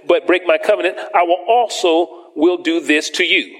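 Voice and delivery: lifted, proclaiming reading of the curses; preacher reading the curses to his church; scripture reading. Acted. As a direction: warn them with each verse. Reads the curses, pitch up.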